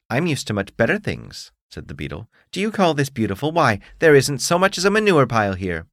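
haughty bug demanding his due; beetle voice. Acted. Beetle sneers at garden.

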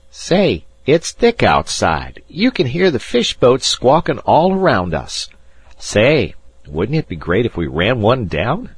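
put-on loud, brash boy calling out to the room. A narrator's reading. Spoiled boy barging into the smoking room, loud brash call. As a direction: announce it loudly to everyone, high and brash. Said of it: "he said in a loud voice".

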